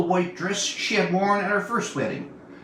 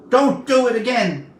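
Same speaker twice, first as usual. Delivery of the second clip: higher, louder scolding shout; shouted warning; 5 semitones higher, 6 dB louder than usual. A narrator's reading. Marika scolding the lion with a loud shout. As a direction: yell it as a command.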